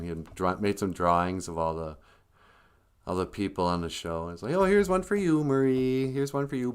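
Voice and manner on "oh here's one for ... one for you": Big Bird. Retold or imitated. Big Bird handing drawings to friends, lightly voiced. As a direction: hand things out in a friendly singsong. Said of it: "Big Bird comes walking in".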